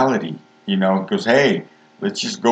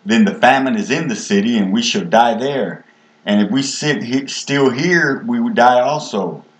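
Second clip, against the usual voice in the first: lifted, pressing reading of the lepers' plea; scripture reading; 2 semitones higher than usual. Acted. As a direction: read the verses as if arguing for survival. Reads lepers' words from scripture.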